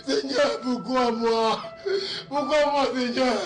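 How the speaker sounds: tearful, pleading cries of loss; grieving lament. Acted. Widower crying out over his dead wife, grieving lament. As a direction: wail to God over your lost love.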